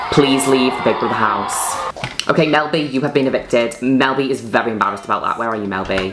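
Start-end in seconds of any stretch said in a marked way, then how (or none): 0.1-1.8 a firm raised call, Please leave the Big Brother house; announcing the eviction. Acted.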